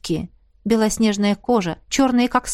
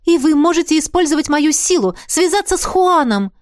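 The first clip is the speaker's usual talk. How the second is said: much higher hopeful asking; hopeful question; 7 semitones higher, 4 dB louder than usual. A narrator's reading. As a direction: ask with rising hope. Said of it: "с надеждой спросила я". (с надеждой)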